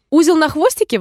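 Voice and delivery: put-on high, surprised little-girl question; exclaiming. A narrator's reading. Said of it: "воскликнула Алиса".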